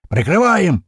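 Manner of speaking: high, loud drawn-out command; adrenaline-fuelled yell. A narrator's reading. Narrator calls covering fire for Ivan, wild yell. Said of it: "ору на диком адреналине".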